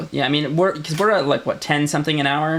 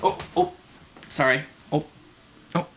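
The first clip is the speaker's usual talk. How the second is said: Midwestern "oh"; 4 dB quieter than usual. Retold or imitated. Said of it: "I go".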